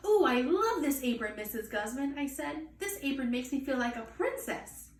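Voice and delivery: put-on high, dreamy child delight; a girl twirling in her new apron. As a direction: swoon over the apron.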